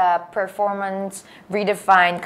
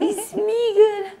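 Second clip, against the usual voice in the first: laughing; 12 semitones higher, slower than usual. Real, not acted. Greeting the Smeagol bit.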